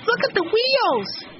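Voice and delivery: very high, stretched-out cry of alarm; shouted warning. A narrator's reading. Boy sees the boxcar rocking, shouted warning. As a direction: call out urgently, way up high. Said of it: "he shouted".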